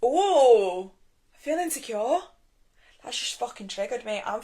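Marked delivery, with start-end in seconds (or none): 0.0-2.2 inner voice. Retold or imitated. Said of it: "I'm like".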